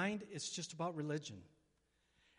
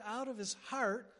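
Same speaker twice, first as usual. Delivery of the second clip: shouted proclamation; 4 semitones higher than usual. Retold or imitated. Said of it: "say heart".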